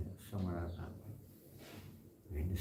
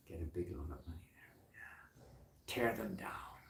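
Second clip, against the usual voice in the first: whisper; 9 dB quieter, slower than usual. Retold or imitated. Voicing greedy revenge plans.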